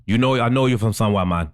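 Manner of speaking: lightly mimicked rapper's warning; slight impersonation, close to own voice; imitating a rapper. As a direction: imitate a man objecting to being filmed. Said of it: "That's how he said it".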